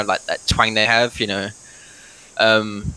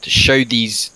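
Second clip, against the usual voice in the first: slow, halting in-character speech; rally the party, with long pauses; lightly voiced adventurer; much slower than usual. Plays his character's speech to the party.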